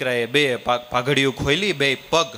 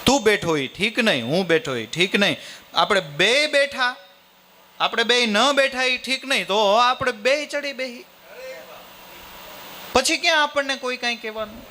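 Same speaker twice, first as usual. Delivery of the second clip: son's voice much higher, reasoning it out; exasperated son; 10 semitones higher than usual. Acted. Son puzzles with father over what to do, high exasperated voice. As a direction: rattle through the options in a high youthful voice. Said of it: "દીકરો કે".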